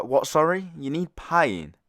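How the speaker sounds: mock confusion, stretching out the question; puzzled disbelief. Friend questioning the strange woman, puzzled disbelief.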